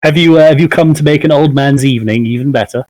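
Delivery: lightly voiced old man, pitched a little up; elderly merchant, welcoming. Old merchant greets a late customer, lightly voiced and hopeful.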